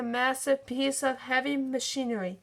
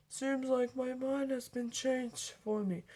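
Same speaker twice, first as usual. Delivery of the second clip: grudging; 5 dB quieter than usual. Acted. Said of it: "said grudgingly".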